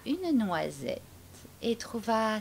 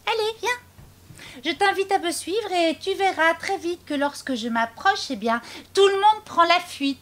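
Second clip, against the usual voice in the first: high, bright mouse voice taunting; perky mouse bragging to the gruffalo; bold little mouse; 7 semitones higher, 4 dB louder than usual. Acted. Mouse teasing the gruffalo, high and cocky.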